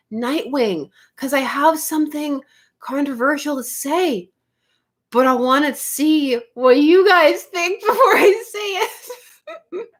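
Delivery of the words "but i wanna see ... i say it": slow, giggling tease; laughing teasingly. Real, not acted. Streamer teasing chat about a Nightwing opinion, laughing. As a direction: hold back a laugh while teasing.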